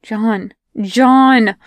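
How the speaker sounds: urgent calls to John; calling out. Acted. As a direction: call him back, urgently.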